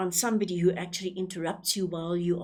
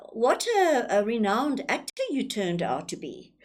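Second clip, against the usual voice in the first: sarcastic. Shown as a demonstration. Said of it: "when actually you mean the opposite".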